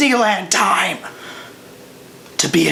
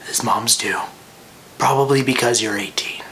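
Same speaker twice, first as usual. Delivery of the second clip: matter-of-fact; 6 semitones lower, 3 dB quieter than usual. Retold or imitated. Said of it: "very matter-of-factly".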